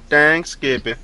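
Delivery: high, silly put-on voice; a high cartoonish Dang Skippy; goofy catchphrase. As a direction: blurt it in a goofy voice. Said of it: "Where'd that come from?".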